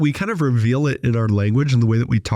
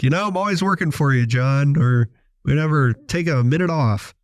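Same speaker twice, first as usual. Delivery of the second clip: tongue in cheek; 4 semitones higher than usual. Retold or imitated. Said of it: "tongue in cheek was like".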